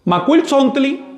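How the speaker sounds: "Macuil Sontli" slow, rising on "Macuil"; slow model. Shown as a demonstration. Teacher models the number for the class. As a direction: say "Macuil Sontli" slowly and clearly. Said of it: "Y cómo se pronuncia".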